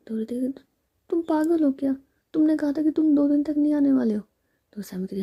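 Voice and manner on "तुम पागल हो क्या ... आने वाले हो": higher, louder, indignant telling-off; indignant scolding. Acted. Ritika scolds Sammy for faking her absence, indignant and louder. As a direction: scold her for the cruel prank.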